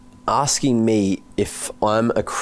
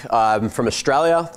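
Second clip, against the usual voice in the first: put-on Australian accent. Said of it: "are you always going to sound like that".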